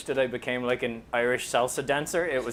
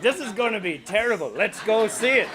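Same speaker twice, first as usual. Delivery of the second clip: higher, louder, delighted at the coming disaster; gleeful Irish classmates; 9 semitones higher, 6 dB louder than usual. Retold or imitated. Classmates relishing his coming flop, higher and gleeful.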